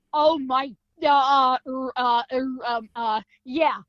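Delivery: imitating stunned, halting stammer; flabbergasted. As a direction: fumble for words as if dumbstruck. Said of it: "flabbergasted at this point".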